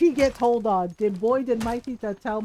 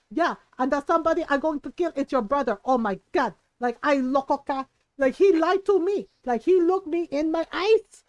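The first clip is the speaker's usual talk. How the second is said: a touch louder, heated retold rant; imitating mom's angry rant; 3 dB louder than usual. Mom venting to her eldest about the son who lied, heated. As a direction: vent like a betrayed mother.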